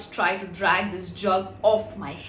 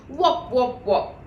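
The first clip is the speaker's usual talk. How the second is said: imitating a hollow voice; lightly mimicked jug sound; mock deep voice; 2 semitones higher, 4 dB louder, slower than usual. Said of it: "in a funny, deep voice".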